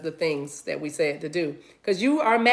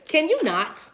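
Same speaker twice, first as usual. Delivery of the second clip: higher imitated protest; mock objecting Bostonians; 8 semitones higher, slower than usual. Bostonians asking her to stop, mock protest. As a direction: play an offended local, pitched up. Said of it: "They're gonna say".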